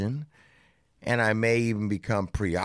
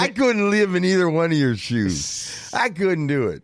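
emphatic refusal; 8 semitones higher, 6 dB louder than usual. Real, not acted. Emphatic refusal among friends.

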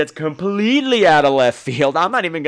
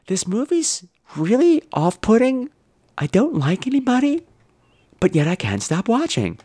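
put-on southern accent; 5 semitones higher than usual. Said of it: "he's going".

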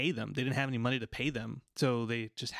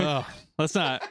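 laughing; 3 semitones higher than usual. Real, not acted. Laughing at embarrassing reminder.

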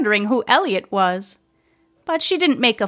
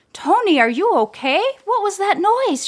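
panted; 9 semitones higher than usual. A narrator's reading. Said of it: "she panted from the doorway".

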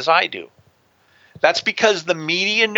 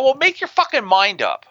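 higher-pitched retold exasperation; fed-up comeback, pitched up without shouting; frustrated retort; 5 semitones higher than usual. Guest retelling his answer to indecisive network staff, frustrated. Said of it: "I get, like, frustrated".

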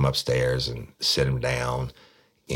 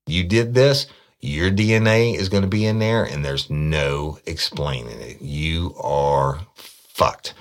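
louder, pitched-up scolding that slows to a crawl; angry cop; 3 semitones higher, 4 dB louder than usual. Retold or imitated. Cop telling suspect his DNA convicts him, loud then slow berating. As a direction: berate him, then spell out each word.

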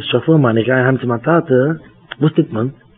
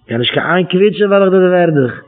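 raised, insistent retold threat; mock threat; 3 semitones higher, much faster than usual. Preacher repeats a quoted threat about squealing, mildly menacing. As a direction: repeat the threat with more push, pitched up.

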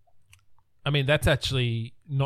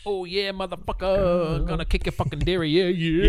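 put-on belligerent drunk; 6 semitones higher than usual. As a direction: taunt like a drunk picking a fight. Drunk brawler threat, acted.

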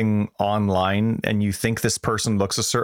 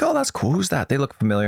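mock excited; 5 semitones higher than usual. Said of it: "I'm like".

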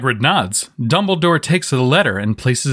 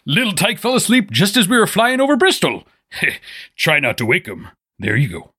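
Hagrid voice; 2 semitones higher than usual. Acted. Plays Hagrid, gruff giant.

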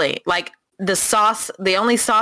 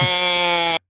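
smoker's cough. Retold or imitated. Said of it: "It's like".

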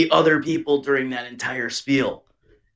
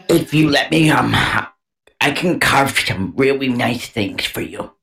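mock Abby girl. Continues the Abby parody.

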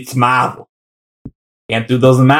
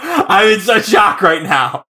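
laughing; 4 semitones higher, slower than usual. Real, not acted. Mock shock through laughter.

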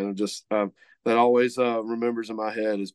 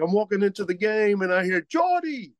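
higher, slurred Cajun voice, imitating a friend; Cajun accent; 9 semitones higher than usual. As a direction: do his Cajun slur, pitched up. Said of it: "he has a big Cajun slur".

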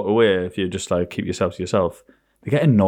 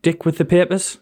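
put-on higher teasing old man voice; teasing granddad; 7 semitones higher, slower than usual. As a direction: tease it like a grinning granddad. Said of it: "He'd be like".

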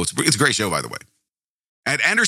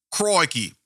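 quick mock Australian Crikey; brief put-on Australian exclamation; Australian accent; 5 semitones higher than usual. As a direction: toss off a Steve Irwin-style Australian Crikey. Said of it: "that's not even British. That's Australian".

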